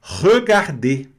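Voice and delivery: Regarder drawn out slowly, closed final e; slow French regarder. Shown as a demonstration. Teacher slowly modelling Regarder for students. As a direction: spell out Regarder slowly by sound. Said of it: "pronúncia fechada aqui do E".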